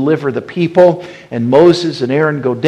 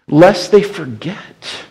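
Lest they forget, each word slow and weighty; slow emphatic refrain; 5 semitones higher, 4 dB louder, slower than usual. Shown as a demonstration. Preacher driving home the refrain to the congregation, slow and solemn. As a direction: lean on it slowly, like a solemn warning.

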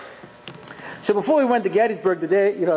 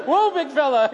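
mock rider; 3 semitones higher than usual. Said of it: "and we're going".

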